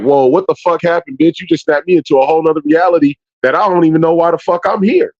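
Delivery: high, fast incredulous rant; mock outburst. Boyfriend snapped out of gaming, rants high and fast. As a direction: act thrown out of game mode.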